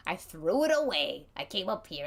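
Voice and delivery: normal talking voice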